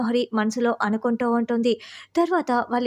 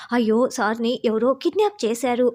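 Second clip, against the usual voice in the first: mild mock shout. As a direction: pretend to cry out so the eavesdropper hears. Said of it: "Rathod గట్టిగా అరుస్తూ". (నటిస్తూ కొంచెం గట్టిగా అరవడం)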